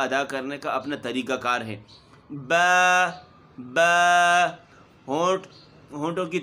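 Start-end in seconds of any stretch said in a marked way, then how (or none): 2.3-4.5 با high and loud, moist lips meeting; correct ba. Shown as a demonstration. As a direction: model the right با for the class. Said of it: "اس طریقے سے ہم نے پڑھنا ہے". (با کی درست ادائیگی، تر ہونٹوں سے)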